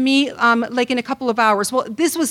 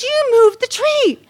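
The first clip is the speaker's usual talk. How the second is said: slow accusing shout; 12 semitones higher, 6 dB louder, slower than usual. Retold or imitated. Husband repeats accusation.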